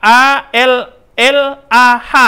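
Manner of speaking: "A L L A H" spelled letter by letter, slow. Shown as a demonstration. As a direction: spell "A L L A H" slowly and clearly. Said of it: "tetap menggunakan A".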